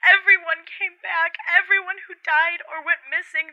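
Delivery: frantic angry shouting; furious yelling. Acted. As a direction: yell it at someone who won't listen. Caller yells at operator.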